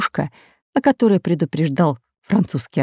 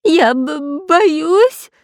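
high, pitiful whine; whimpering; 9 semitones higher, much slower than usual. A narrator's reading. The spy whimpers pitifully about his fear. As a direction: whimper like a scared child. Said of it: "жалобно захныкал он".

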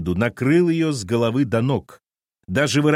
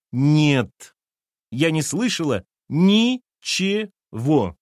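Lena's voice; 5 semitones higher, much slower than usual. A narrator's reading. Lena voiced in the story.

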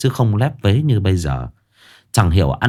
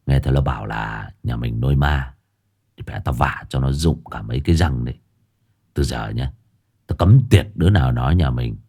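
drugged slurred threats; 7 semitones lower than usual. A narrator's reading. High husband slurring threats.

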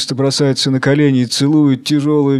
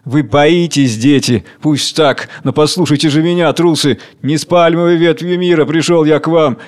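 cold fury. Acted. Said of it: "с холодной безнадёжной свирепостью".

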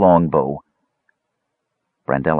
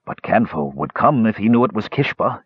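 put-on gruff old fisherman; 3 semitones higher than usual. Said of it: "insisted the frustrated fisherman".

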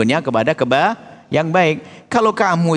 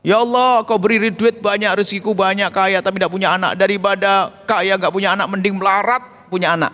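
angry complaint to God; 3 semitones higher than usual. Retold or imitated. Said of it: "Ada orang begini loh marah".

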